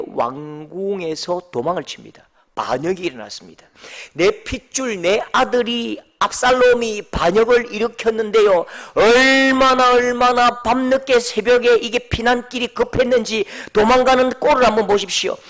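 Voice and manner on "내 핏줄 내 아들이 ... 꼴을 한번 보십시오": loud, impassioned sermon delivery; forceful preaching. Acted. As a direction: preach it out to the congregation.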